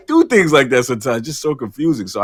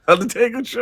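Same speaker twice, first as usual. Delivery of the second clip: incredulous; 12 semitones higher than usual. Real, not acted. Incredulous echo of absurd quest.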